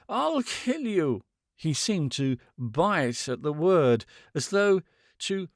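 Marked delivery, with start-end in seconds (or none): 0.1-1.2 high, slow, broken muttered threat; slow gasped threat. A narrator's reading. Man muttering threats at the woman in gasps. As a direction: bite at the word kill. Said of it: "muttering in short, broken gasps".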